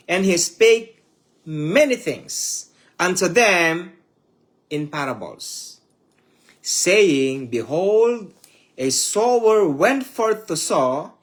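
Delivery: slow, solemn Bible reading; scripture reading. Acted. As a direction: read the parable like scripture from the pulpit. Reads scripture aloud solemnly.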